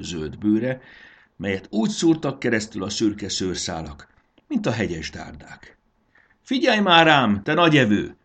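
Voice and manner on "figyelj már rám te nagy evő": indignant shout. A narrator's reading. Fairy demands the munching caterpillar's attention, shouting indignantly. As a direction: shout high for the creature's attention. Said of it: "kiáltotta Fanny".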